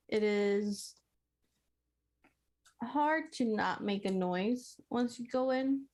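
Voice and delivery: talking with food in mouth; mouth full. Real, not acted. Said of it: "I have food in my mouth".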